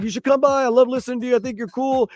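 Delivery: high-pitched, hammed-up British accent impression; terrible British accent. Host mimicking a British radio guy's invitation in a bad British accent. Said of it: "But he was like".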